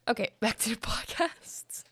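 laughing whisper to herself. Real, not acted. After her tangent, whispers with a laugh to resume the podcast. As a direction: whisper it through a laugh to get back on track. Laughing aside, returning to topic.

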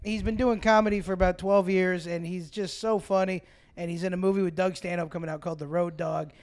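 loud hype-man introduction; announcer intro. Acted. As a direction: pump up the crowd for the guest. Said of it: "Get loud for Dez Mulrooney".

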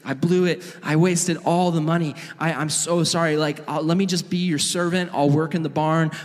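mildly acted shame, begging pardon; ashamed son. Son confesses to his dad, ashamed. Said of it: "he's so ashamed".

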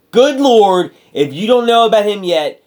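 excited. Real, not acted. Raving about a wrestler.

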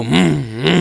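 two short hummed revs; hummed "mm, mm" engine noise; imitated engine revving. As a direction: mimic a car revving behind you. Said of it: "Y hacen así como".

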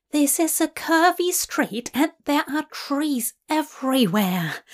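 mildly alarmed, fretful protest; Aziraphale complaining. Acted. Angel to demon driver on a curvy street, complaining. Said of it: "Aziraphale complains".

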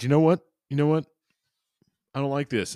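high-pitched mock outrage; high mock protest. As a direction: squeal a defiant refusal. Ed defies aliens.

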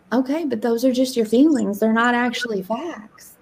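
gentle, matter-of-fact correction; nice-sounding coach. Retold or imitated. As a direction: retell the coach's words nicely. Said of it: "Nicer. You sound so nice when you speak".

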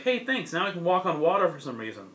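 a hint of a delighted, clueless hero; cheerful Mario. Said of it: "he's like".

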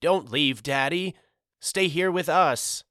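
put-on high-pitched pleading child's wail. A narrator's reading. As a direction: wail it like a little boy begging Daddy to stay. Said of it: "He wailed".

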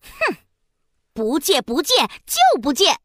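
huffy, sulky princess refusing; pouting refusal. Acted. Princess pouting at the monkey, sulky refusal. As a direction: pout and refuse stubbornly. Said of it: "嘴巴撅得高高的".

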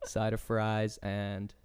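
light American accent with a laugh; a self-conscious hint of American. Shown as a demonstration. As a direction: order food in mild American, amused. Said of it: "I can do an American accent".

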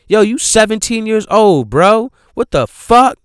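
high, loud indignant rant; appalled telling-off that climbs to loud disbelief; outraged scolding. Acted. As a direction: tear into him, pitch riding high. Scolding the movie character as if present.

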